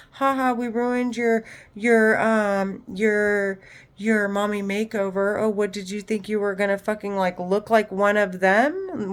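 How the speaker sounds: mocking men's voices. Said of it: "That's what the men are saying in my head".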